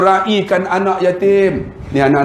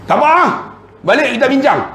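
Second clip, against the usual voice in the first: put-on high voice; high-pitched reply; 10 semitones higher, faster than usual. Replying to a leave request, high put-on voice. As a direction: answer briskly, pitched way up.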